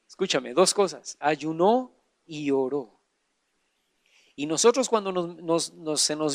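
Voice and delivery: quiet, weighty sermon point; hushed point. Real, not acted. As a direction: drop to a near hush to land it. Pastor lowers voice for the point.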